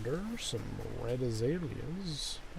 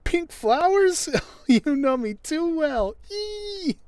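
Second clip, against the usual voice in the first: put-on squeaky, delighted girl voice, very high and loud; high girly voice; 11 dB louder, slower than usual. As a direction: play a thrilled villager who loves pink. Voicing the villager's happy reply.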